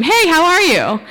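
bright greeting yelled out loud; cheery shout. Retold or imitated. Shouting hello at a stranger in the woods. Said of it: "but we're gonna scream".

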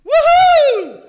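put-on high, very loud drunken whoop; whooping woman. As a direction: whoop it out like a party girl. Woman cheering from window.

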